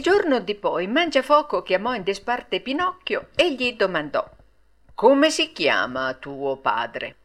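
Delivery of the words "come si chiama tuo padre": low, slow question; puppet master's voice. A narrator's reading. Puppet master takes Pinocchio aside, low slow questioning. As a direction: ask slowly in a deep voice.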